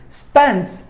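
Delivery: "Spence" stressed on its own; stressed syllable. Shown as a demonstration. Teacher showing which syllable takes stress, "Spence" emphasised. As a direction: lean on "Spence" as the strong syllable. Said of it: "should be given more volume".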